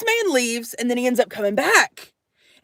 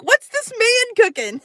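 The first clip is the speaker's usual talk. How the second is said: laughing wonder; 9 semitones higher than usual. Retold or imitated.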